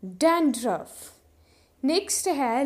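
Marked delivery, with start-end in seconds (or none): 0.0-1.1 slow model word. Shown as a demonstration. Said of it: "English में बोला जाता है".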